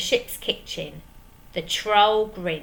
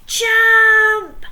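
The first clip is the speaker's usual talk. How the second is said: much higher, louder barked order; yell; 13 semitones higher, 11 dB louder than usual. Acted. Pirates yelling at the troll to jump. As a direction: bellow it at him. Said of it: "yelled the pirates".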